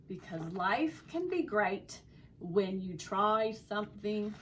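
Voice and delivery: story read with an attempted Australian accent; lively storyteller trying an Australian accent. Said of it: "my attempt at an Australian accent".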